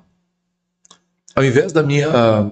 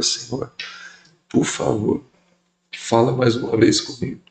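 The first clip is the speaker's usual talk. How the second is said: soft pleading prayer; 5 dB quieter than usual. Retold or imitated. Prayer in a tight moment.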